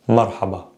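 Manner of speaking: "marhaba" with a single light tap; soft R. Shown as a demonstration. Teacher closes the soft R tip, light tap. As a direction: tap the R of "marhaba" softly once. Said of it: "with regards to the soft R".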